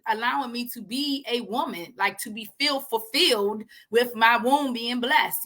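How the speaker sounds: a touch of hurt pleading with God; imitating her own angry prayer, not full force; mad at God. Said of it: "talk to him about it".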